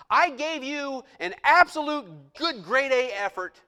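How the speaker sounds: loud, high, slow complaint to God; high loud aggrieved mock voice; mock indignant believer. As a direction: rant at God like a cheated customer. Mocking disappointed believer.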